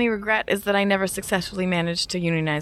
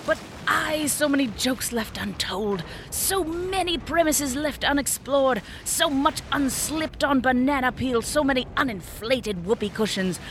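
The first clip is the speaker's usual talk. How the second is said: lightly hammed Shakespearean deathbed speech; a mildly grand stage tragedian; dramatic death scene; 5 semitones higher than usual. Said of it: "Can I at least have a dramatic death scene?".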